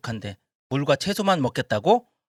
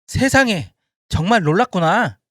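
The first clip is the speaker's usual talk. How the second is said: amazed; 3 semitones higher, 4 dB louder than usual. Acted. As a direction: exclaim in amazement. Official marvels.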